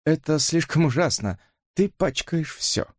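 put-on hurt young woman; pained Mary. Mary reproaches. (огорчённая девушка)

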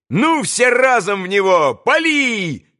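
high-pitched command to fire; rallying cry. A narrator's reading. Boy orders the group to throw together, rallying cry. Boys' battle command in story.

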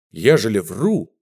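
plain reading voice

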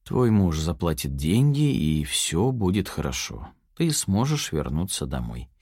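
calm her down, softly; a hint of false tenderness; soft mock care. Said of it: "мягко произнёс он с подобием заботы".

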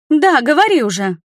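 irritated friend growling at the liar; growled push. A narrator's reading. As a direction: growl at her to spit it out. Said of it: "рыкнула на неё Нерина".

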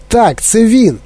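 high excited confirmation; crying out. A narrator's reading. Wonka spotting the boy, excitedly crying out. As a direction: pitch it up, thrilled. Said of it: "заволав містер Вонка".

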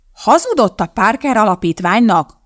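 loud angry yell into the phone; shouting. A narrator's reading. Woman yells into the phone at the bishop, loud. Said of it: "ordította a nő a telefonba".

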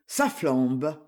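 low, sober echo of her remark; serious. A narrator's reading. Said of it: "dit Jean sérieux".

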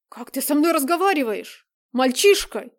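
loud, furious rebuke; shouted reproach; outraged scolding. Acted. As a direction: put the insolent boy in his place. Stepfather scolds rude stepson.

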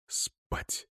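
soft whisper to himself; sleepy inner longing; whispered, exhausted «Спать»; whispered thought. Acted. Tired officer's inner thought.

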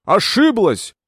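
loud, high "Ты ошиблась!"; Anthony shouting his denial at Margaret. A narrator's reading. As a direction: yell it at her. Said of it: "закричал Энтони".

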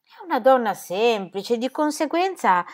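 slow, rising, left hanging on "conseguenza"; breaking off mid-sentence. A narrator's reading. Son explaining his mother to his bride, suddenly breaking off. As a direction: draw out "conseguenza", pitch climbing, then stop short. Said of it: "all'improvviso si interruppe".

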